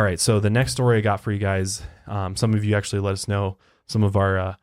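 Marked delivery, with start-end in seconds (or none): 3.9-4.6 put-on Canadian accent. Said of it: "I was trying to do a Canadian accent".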